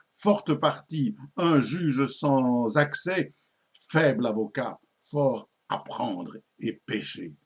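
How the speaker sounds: slow, emphatic poetic declamation; declaimed verse curse. Acted. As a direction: launch each stanza firmly like a solemn malediction, easing down at its close. (malédiction déclamée en vers)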